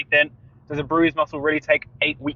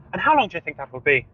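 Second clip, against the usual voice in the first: put-on Irish accent; faster than usual. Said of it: "the strongest Irish accent going".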